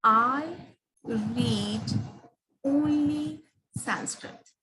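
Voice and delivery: "only Sanskrit" slow, leaning on "only", falling at the end; slow down on "only Sanskrit" and let it fall; stress on only. Shown as a demonstration. Teacher showing the third sentence, slowing on "only Sanskrit". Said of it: "these three sentences".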